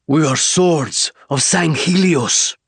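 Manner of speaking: high, slow, loud alien declaration; proud alien warrior. Acted. Alien warrior to the frightened human: proud, slow, high alien voice. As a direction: announce your people with pride.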